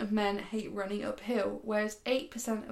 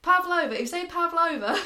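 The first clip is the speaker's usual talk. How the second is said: higher, louder attempted New Zealand accent; 7 semitones higher, 5 dB louder than usual. Shown as a demonstration. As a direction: slip into an exaggerated Kiwi accent. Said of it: "a New Zealand accent".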